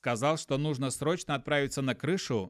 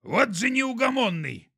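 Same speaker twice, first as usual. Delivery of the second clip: snorting laugh; 8 semitones higher, 5 dB louder than usual. Acted. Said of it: "хрюкнул от смеха Пук".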